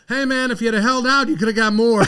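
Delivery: high, loud teasing through laughter; laughing tease. Retold or imitated. Coach teasing the player about holding out, laughing. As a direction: rib him while cracking up. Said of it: "he said".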